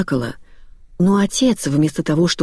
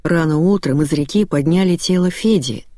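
ordinary delivery, nothing marked

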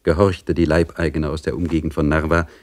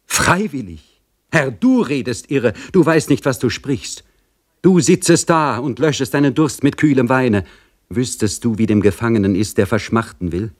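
impassioned mother, often pitched up; indignant serf mother; 5 semitones higher than usual. Acted. Mother tells the general how the confession was forced, indignant. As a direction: protest with rising indignation, then recount it urgently.

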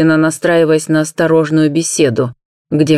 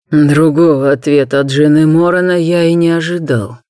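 contemptuous snort; 3 semitones lower than usual. Acted. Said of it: "Презрительно фыркнул Нак".

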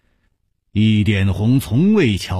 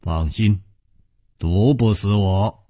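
low, easy smiling reply; smiling reassurance; 3 semitones lower than usual. Acted. Chu reassures ally about poison, mild smiling calm. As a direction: reassure lightly, pitched down. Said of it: "楚留香微笑着说".

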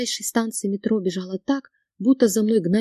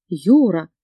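sharp rebuke; 3 semitones lower, 7 dB louder than usual. A narrator's reading. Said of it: "одёрнула его мама".

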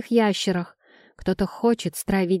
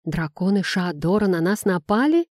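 usual speaking voice

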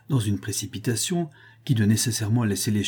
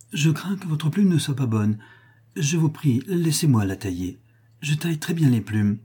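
fawning Miss Bingley; 5 semitones higher than usual. Acted. Miss Bingley fawning over Darcy.

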